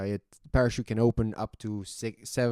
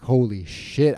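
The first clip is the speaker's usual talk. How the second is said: loud startled holy shit; startled exclamation; 6 dB louder, slower than usual. Retold or imitated. Skydiver recalling his first jump, startled blurt. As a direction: blurt it out in shock. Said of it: "I'm like".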